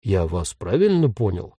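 low, tentative ghost question; uncertain. A narrator's reading. Ghost checks he understood Jen, unsure. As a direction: check doubtfully that you understood. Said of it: "неуверенно повторил призрак".

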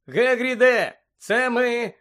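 high, loud call; shouting. A narrator's reading. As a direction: call out through a closed door. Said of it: "закричав Гаррі".

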